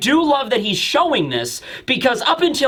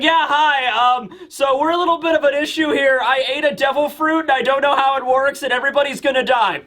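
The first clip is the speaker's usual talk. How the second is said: higher, anxious phone-caller voice; 4 semitones higher than usual. Acted. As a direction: ramble nervously to the help desk. Panicked caller to tech support.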